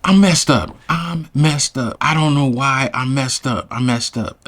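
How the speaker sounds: mildly tearful, starting high and sinking; imitated tearful confession. Crying woman outside his house, imitated tearful confession. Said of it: "and she's crying, like, crying".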